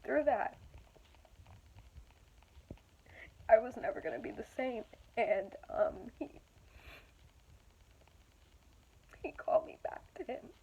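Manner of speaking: holding back tears; after crying. Real, not acted. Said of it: "I don't mean to get teary".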